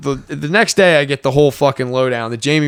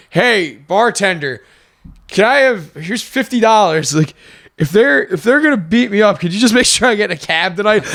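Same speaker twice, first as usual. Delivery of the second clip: put-on cocky drunk request; 5 semitones higher than usual. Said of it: "I was like".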